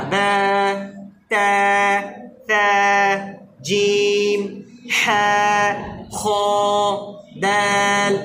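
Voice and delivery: each letter held long; letter names drawn out. Shown as a demonstration. Teacher drills Arabic letter names for class. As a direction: stretch every letter name out. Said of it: "এক আলিফ লম্বা".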